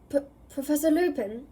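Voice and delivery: stammered in disbelief; disbelieving. Acted. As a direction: stumble over it, can't believe it. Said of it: "he said disbelievingly".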